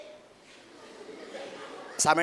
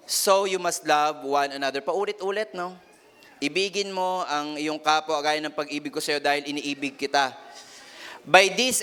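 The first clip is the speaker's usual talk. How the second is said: slow, weighty Bible reading; solemn scripture reading; slower than usual. Acted. Preacher reading First John to the congregation, slow and solemn. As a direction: linger on each word of the verse.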